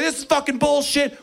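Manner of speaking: high, disgusted complaint; disgusted opponents. Retold or imitated. Other team complaining, high disgusted gripe. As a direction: spit it out in disgust. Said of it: "Everyone on the other team was just like".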